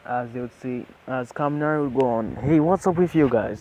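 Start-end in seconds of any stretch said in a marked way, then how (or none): 2.4-3.6 excited question. Acted. Kaminari questions them.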